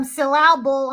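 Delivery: "syllable" jokingly said sil-AL-ble, stressed in the middle; stressed on wrong syllable. Shown as a demonstration. Host joking about her mispronounced names, "syllable" wrongly stressed mid-word. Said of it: "the emphasis on the wrong syllable".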